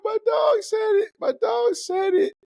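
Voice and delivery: high, loud disbelieving yell; excited shout. Real, not acted. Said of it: "excited shouting".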